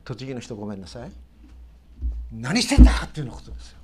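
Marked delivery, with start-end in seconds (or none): 2.3-2.9 loud, rough Tochigi-dialect bark; the captain rousing Jonah with a shouted Tochigi-dialect rebuke. Retold or imitated. A ship captain yells at sleeping Jonah in rough Tochigi dialect. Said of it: "栃木弁で言うならばね".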